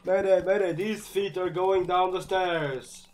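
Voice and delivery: loud mock pilot distress call; hammed-up mayday as if crashing; bracing for a crash.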